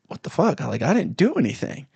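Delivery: high-pitched, baffled retelling of a protest; mock-indignant disbelief. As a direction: protest your innocence, voice jumping up. Retelling his protest at being shoved.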